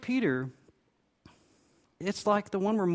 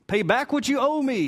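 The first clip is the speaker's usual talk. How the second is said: loud, higher angry demand; 8 semitones higher, 5 dB louder than usual. Acted. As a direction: bark the demand like a ruthless creditor. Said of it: "he demanded".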